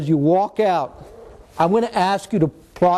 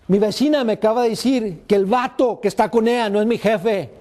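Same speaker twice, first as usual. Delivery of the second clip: put-on raised-pitch kid confessing; lightly voiced upset kid; 4 semitones higher than usual. Kid confesses to teacher about his father, raised upset voice. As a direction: plead it like an upset boy. Kid's tearful confession, acted.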